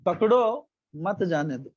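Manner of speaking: pakdo, full stop, then mat jaane do; pause after pakdo. Shown as a demonstration. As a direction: slowly, break the line after pakdo. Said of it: "बीच में full stop आ गया ना".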